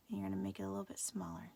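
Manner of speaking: quick whispered instruction; fast whisper. Real, not acted. Teacher whispering a quick step to the class. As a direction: rush it out under your breath.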